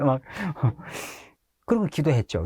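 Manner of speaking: normal talking voice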